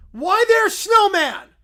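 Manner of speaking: high, loud, slow, without laughing; broken-English bear. Acted. Little Brown Bear pointing at Snowman again, high and loud. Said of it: "Why is he talking in broken English?".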